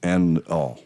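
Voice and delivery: bird voice with an Australian twang; Australian accent. Acted. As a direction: play it as an Aussie bird. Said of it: "That was Australian".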